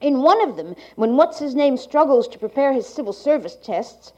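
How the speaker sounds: like a 1980s archival tape. Real, not acted. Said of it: "to the speaker's reading".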